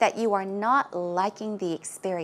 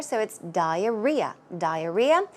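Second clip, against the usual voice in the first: "diarrhea" with the beat on the opening DI; stress on first syllable. Shown as a demonstration. Teacher modeling "diarrhea" for students, stress up front. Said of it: "stress goes right there".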